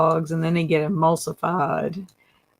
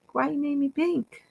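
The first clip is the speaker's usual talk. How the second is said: mildly grumpy groundhog; 9 semitones higher, 6 dB quieter than usual. Pretend. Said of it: "he's kinda mad that you made him pink".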